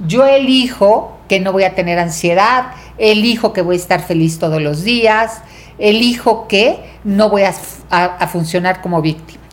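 firm declarations, each opened on "yo elijo"; authoritative, empowered. Real, not acted. Teacher showing what a warrior chooses, authoritative. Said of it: "con esa autoridad y con ese poder".

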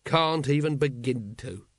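weakly, drawn out; slow, feeble reply. Acted. Vimes answers his eager constable, weakly. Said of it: "said Vimes weakly".

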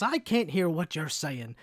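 slow, lightly mocking cartoon geezer; a hint of animated-movie old codger; Disney old man. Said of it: "he was like a Disney old man".

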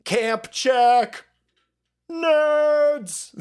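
high taunting yell; gleeful taunt call. Real, not acted. Gamer yelling at other players, high taunting call. Calling out in game.

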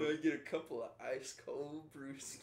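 mock Southern bar order; fake Southern accent. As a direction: imitate a friend's fake Southern twang. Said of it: "His, his would have sounded different".

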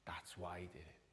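a soft, low whisper. Real, not acted. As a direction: drop to a hush. Preacher whispers conclusion.

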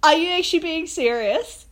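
yelling at grown men in the dorm; retold yell. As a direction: demand it in disbelief, loud. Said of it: "and then I'm like".

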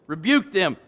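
"Rebuked them" said again through a chuckle; laughing repeat. Shown as a demonstration.

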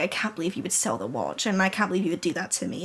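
lightly acted mutter, kept under the breath; muttering to himself. Husband talking to himself about the watch, muttering. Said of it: "Walter continues to talk to himself".

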